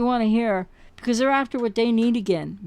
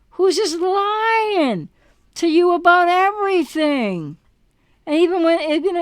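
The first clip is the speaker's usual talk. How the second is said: outraged shout; 6 semitones higher, 4 dB louder than usual. Real, not acted. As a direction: cry it out at the liar. Calling out the lying ex.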